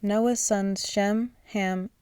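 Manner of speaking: slow careful reading. Real, not acted. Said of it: "I am so sorry if I got those wrong".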